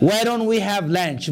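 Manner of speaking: slow, clear teacher's model; slow model sentence. Shown as a demonstration. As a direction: spell it out slowly for learners. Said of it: "በል እስኪ".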